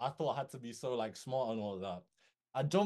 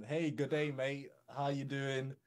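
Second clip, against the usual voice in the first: lightly imitated Australian greeting; a casual hint of an Australian accent; slower than usual. CEO greets a nervous copywriter on a video call, light Australian accent. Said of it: "with his Australian accent".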